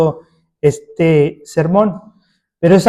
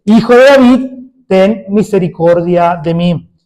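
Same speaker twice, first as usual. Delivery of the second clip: the plea 'Hijo de David' pitched up and louder, then easing on 'ten misericordia de mí'; louder mock cry; 2 semitones higher, 3 dB louder than usual. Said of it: "y gritaba mucho más fuerte". (grito más fuerte, a medias)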